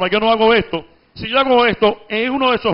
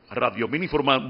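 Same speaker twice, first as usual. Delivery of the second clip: news opener demo; 7 semitones lower, 6 dB quieter than usual. Shown as a demonstration. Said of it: "voy en el tono medio".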